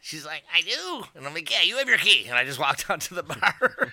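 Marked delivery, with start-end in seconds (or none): 0.5-1.0 high, bright mock reply. Drunk woman answering. 1.5-2.3 high and louder, fed up; exasperated mock yell; loud mock exasperation. Exasperated reply.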